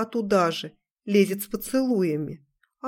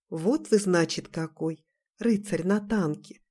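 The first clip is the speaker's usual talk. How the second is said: mysteriously; 3 dB quieter than usual. Acted. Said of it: "загадочно проговорила девушка".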